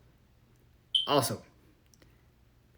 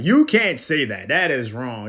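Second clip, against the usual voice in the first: mock scold; 6 dB louder, slower than usual. Mocking Gen Z scolding others.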